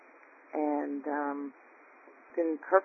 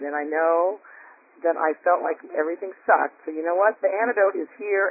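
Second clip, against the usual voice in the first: loud, fired-up self-pep talk; determined pep talk; 3 semitones higher, 6 dB louder than usual. Retold or imitated. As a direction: psych yourself up to jump into cold water. Retelling her pep talk before swimming.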